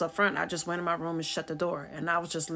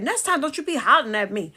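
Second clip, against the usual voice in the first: raised, high, loud comeback; indignant retort; 7 semitones higher, 6 dB louder than usual. Retold or imitated. Talking back to her sister, indignant. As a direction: answer back loudly, still put out.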